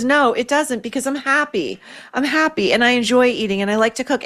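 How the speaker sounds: a hint of Elizabeth Taylor holding her head up; dignified Taylor. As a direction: answer with calm dignity. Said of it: "keeping her dignity".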